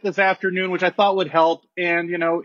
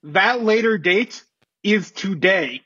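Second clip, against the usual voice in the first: formal announcement. Acted. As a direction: read it like a commissioner at a podium. Commissioner's formal statement.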